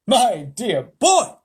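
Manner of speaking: slow, loud, drawn-out; patient Wonka. Acted. Wonka gently correcting Charlie, slow and loud. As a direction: savour each word kindly.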